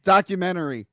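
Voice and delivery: Documentary said DOCK-yoo-men-tree, falling; Documentary with a long oo in the middle; Rochester pronunciation. Shown as a demonstration. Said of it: "Where I'm from, we say documentary".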